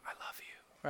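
breathy whispered "I love you" in passing; creepy whisper. Pretend. Creepy guy whispering to women in the hallway, whispered. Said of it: "you're just whispering".

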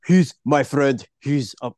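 attempted Austrian action-hero accent; Arnold Schwarzenegger. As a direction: try out an Austrian strongman voice. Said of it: "let me do my good Schwarzenegger accent".

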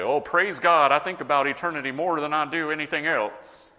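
a light mock of a pious churchgoer, fast at the end; pious Christian accent. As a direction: put on the holy Christian face. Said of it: "You like that accent, don't you?".

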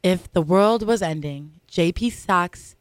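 hushed nature documentary narrator. Acted. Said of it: "with my narrator voice".

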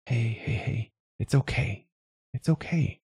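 soft, high, hushed comfort; soothing whisper. A narrator's reading. Dad comforting his crying child, soothing whisper.

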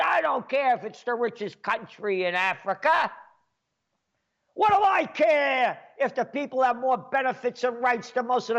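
lightly voiced mob boss, rising to a shout on the oil; a hint of a ruthless boss barking demands; mafia boss voice. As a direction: play a greedy mob boss giving orders. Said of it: "the mafia would say".

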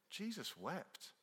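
drawn-out exasperated "Jesus wept" with a lift; swearing exclamation. Retold or imitated. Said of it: "it's a term of swearing".

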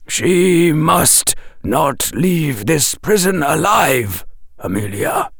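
put-on slow, firm old wizard; grave wise old wizard. A narrator's reading. Dumbledore voiced in story.

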